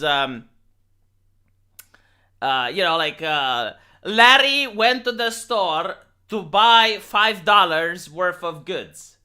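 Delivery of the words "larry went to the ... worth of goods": slow, deliberate textbook sentence; language-class reading. Acted. English teacher reading a textbook sentence to learners, slow model reading. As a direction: read it out slowly like an English drill. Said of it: "the teacher makes you read all of those".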